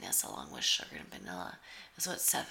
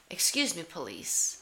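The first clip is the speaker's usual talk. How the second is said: polite cop address; 4 dB louder than usual. Retold or imitated. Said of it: "addressed the cops as".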